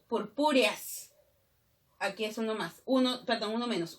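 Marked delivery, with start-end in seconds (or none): 0.1-1.1 "Purpúreas" drawn out slowly, final "eas" run together; slow "Purpúreas" with the hiatus closed up; joined vowels. Shown as a demonstration. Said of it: "la sinéresis lo une".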